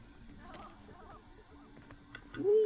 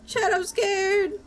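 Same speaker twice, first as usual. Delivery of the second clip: mock scared; 4 semitones higher, slower than usual. Repeated plea, crying sound.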